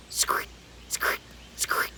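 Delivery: soft whispered squeaks; storyteller making the stone's squeak sound. Acted. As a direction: breathe the squeak like a wet apron.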